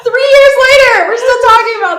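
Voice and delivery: loud, high exclamation through laughter; incredulous outburst. Real, not acted. Incredulous laughing outburst at old debate.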